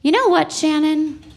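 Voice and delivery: slow, drawn-out motherly advice, the last words dragged; mom's advice. Retold or imitated. Mother telling Shannon to hold a grudge, drawn out slowly. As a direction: hand down a grudge like sage wisdom, very slowly. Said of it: "my mom's been like".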